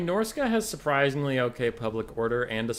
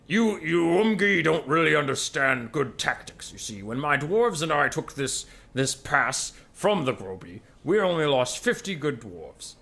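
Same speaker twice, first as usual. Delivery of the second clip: dwarf voice; 3 semitones higher, 4 dB louder, slower than usual. Acted. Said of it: "the dwarf says".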